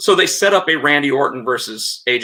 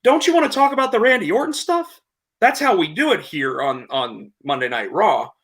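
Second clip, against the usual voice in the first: AJ Styles interrupting; 9 semitones higher than usual. Retold or imitated. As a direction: cut in fast and high, stopping the show. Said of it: "he's like".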